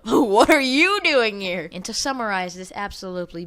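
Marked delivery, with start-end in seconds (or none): 0.0-1.7 slow mock retort. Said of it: "And I'm like".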